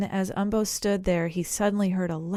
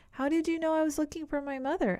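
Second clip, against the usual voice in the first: fast, much higher astonished question; surprised; 9 semitones higher, faster than usual. A narrator's reading. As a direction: blurt it out in amazement. Surprised little elephant asks.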